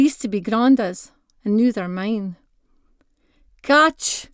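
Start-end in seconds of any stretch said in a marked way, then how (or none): 3.6-4.3 playful call. Acted. Granda tossing toy to grandson.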